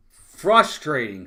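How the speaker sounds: slow, weighted "frustrating" with a heavy fall; drawn-out frustration. Real, not acted. Fan telling his chat about the team, dragging out "frustrating". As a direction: let "frustrating" drag out, fed up. Repeats the word after the out.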